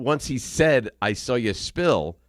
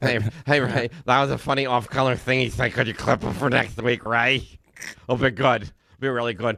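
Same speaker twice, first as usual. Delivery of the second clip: mocking imitation of a voice. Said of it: "so that's my voice now today?".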